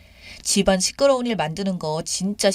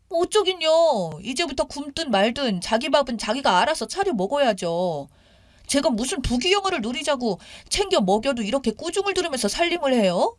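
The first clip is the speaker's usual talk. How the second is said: acted indignant daughter-in-law; defiant retort; 5 semitones higher than usual. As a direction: talk back to the mother-in-law. Daughter-in-law retorts in phone quarrel.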